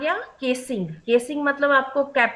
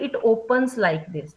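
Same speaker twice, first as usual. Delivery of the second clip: correct version; much slower than usual. Shown as a demonstration. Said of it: "जो सही होता है वो होता है".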